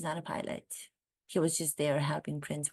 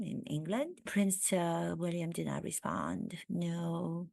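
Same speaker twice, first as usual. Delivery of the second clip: light mock French accent. Comedian gossiping about the Sussexes in a French accent. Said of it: "now I'm doing a French accent".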